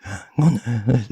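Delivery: audible gasp of breath drawn in; inhaled gasp. Shown as a demonstration. Demonstrating the inhale for Japanese learners. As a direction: suck the air in sharply before speaking. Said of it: "breathe in and speak".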